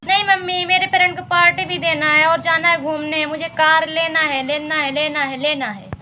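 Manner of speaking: stubborn daughter. Acted. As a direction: nag on and on, fading at the end. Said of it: "गुस्सा मत करो".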